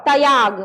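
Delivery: तयाग said ta-yaag, with an a after t; तयाग as two syllables; full t sound. Shown as a demonstration. Teacher reading the full-t spelling, two syllables. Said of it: "अब इसको क्या पढ़ेंगे?".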